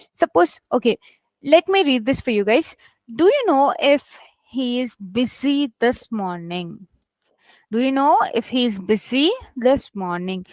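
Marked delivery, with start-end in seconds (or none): 3.1-6.9 slow reading, weight on "know" and "busy"; deliberate word stress. Shown as a demonstration. Teacher reading a stress test for students, slow deliberate stress. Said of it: "on which word did I stress?". 7.7-10.4 measured reading, "busy" picked out; deliberate word stress. Shown as a demonstration. Teacher repeating the stress test for students, "busy" emphasized. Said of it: "on which word did I stress?".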